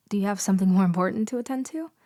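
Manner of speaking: quick, pushy challenge; abrasive. Acted. Student snaps quickly at the professor, abrasive. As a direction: press him fast, a little rude. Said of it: "that was a bit abrasive".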